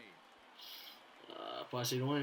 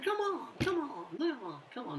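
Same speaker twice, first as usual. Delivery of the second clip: higher, urgent come on; pleading; 9 semitones higher, slower than usual. Real, not acted. Gamer urging a batted ball, high and pleading. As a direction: beg the ball to go through.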